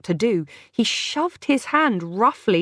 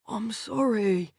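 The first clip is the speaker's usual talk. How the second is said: repeated like a mantra; 3 semitones higher, 5 dB quieter, slower than usual. A narrator's reading. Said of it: "Ben kept repeating like a mantra".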